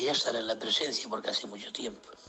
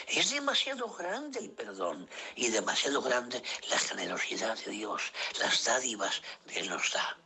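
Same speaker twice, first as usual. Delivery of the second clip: preaching. Acted. Preaching forgiveness to brothers.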